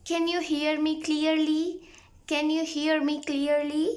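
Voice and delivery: very slow, clear English; slow model phrase. Shown as a demonstration. Teacher slowly modelling a phone check for learners. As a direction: drill it word by word. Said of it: "एक phrase का इस्तेमाल कर सकते हैं".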